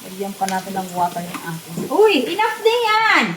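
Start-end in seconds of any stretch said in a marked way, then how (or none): 1.9-3.2 loud, high shout of alarm; yelling. Real, not acted. Mother stopping child wasting water, yelling.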